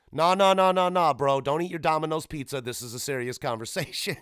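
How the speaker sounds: loud high run of nahs, easing down; mock stern scolding. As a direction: cut in urgently, mock-serious. Acted scolding as Chris Hansen.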